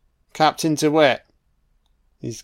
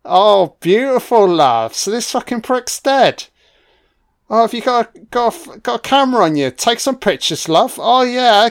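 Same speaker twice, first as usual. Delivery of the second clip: much higher, louder, cheering; jubilant celebration; 8 semitones higher, 4 dB louder than usual. Real, not acted. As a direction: cheer like your team just scored. Celebrating villain's death.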